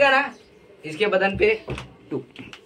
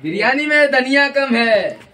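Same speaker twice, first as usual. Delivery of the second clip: slow, stretched mock-grave announcement; hammed-up inspector revelation; TV detective parody; 2 semitones higher than usual. Shown as a demonstration. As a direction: draw out every word like a big clue. Rehearsing parody detective line.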